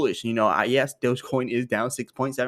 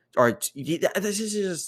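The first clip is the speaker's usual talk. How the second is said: excited, high-pitched, halting stutter on first sounds; 8 semitones higher than usual. Reporting a huge Dogecoin purchase, stuttering from excitement. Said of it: "I can't even say it without stuttering".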